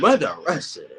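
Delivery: laughing repeat. Real, not acted.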